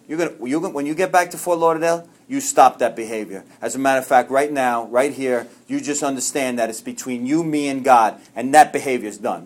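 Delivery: low, matter-of-fact sponsor impression; imitated sponsor. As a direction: lay down the law like a sponsor, mildly. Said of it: "That's the way he talks".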